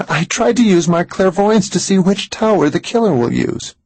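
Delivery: high, tense woman's voice, shaken; trembling with fear. A narrator's reading. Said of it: "She was trembling".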